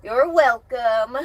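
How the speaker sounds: slow, drawn-out sarcastic "You're welcome". Pretend. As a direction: stretch "You're welcome" out slowly and loudly to mock the chat. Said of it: "if it wasn't for me".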